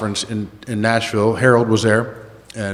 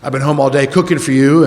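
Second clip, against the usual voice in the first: mock fifties housewife; 4 dB louder than usual. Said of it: "nineteen fifties housewife".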